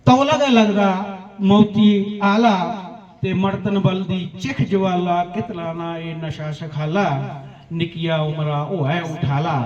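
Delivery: rhythmic verse, stepping steadily down in pitch; poem recitation. Acted. Poet warns how addiction kills young, measured recitation. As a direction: let each rhymed line sink toward the refrain.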